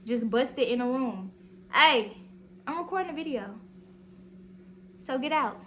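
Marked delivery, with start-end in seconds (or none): 1.7-5.6 sharp yell, then firm; real shout at brother. Real, not acted. To little brother busting in while recording, an annoyed shout. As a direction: shoo him out loudly.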